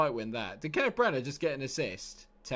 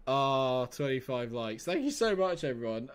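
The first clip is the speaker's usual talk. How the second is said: ordinary talk, nothing marked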